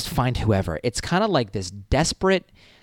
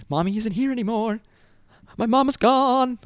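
high-pitched wail, slowing and louder; mock panic; 12 semitones higher, 3 dB louder than usual. New student realising mom is gone, mock panic.

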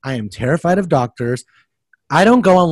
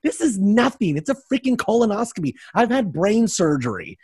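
dismissive friend; 7 semitones higher than usual. Retold or imitated. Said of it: "my friend is like".

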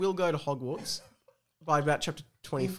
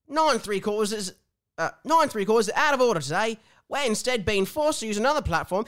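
official announcement voice; 4 semitones higher, 4 dB louder than usual. Acted. Character Gaxley announcing.

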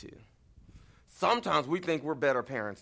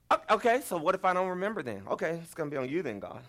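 flustered retort; 4 semitones higher than usual. Retold or imitated. Retelling arguing back with God.

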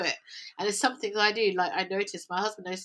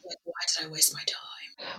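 hushed inner voice; whispered self-talk; 4 semitones lower than usual. Retold or imitated. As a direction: whisper it to yourself in regret.

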